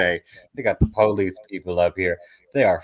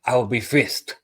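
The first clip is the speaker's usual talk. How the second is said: higher, louder whiny complaint; higher mock whine; whining friend; 7 semitones higher, 6 dB louder than usual. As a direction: moan it like she's doomed to be searched. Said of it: "she's like".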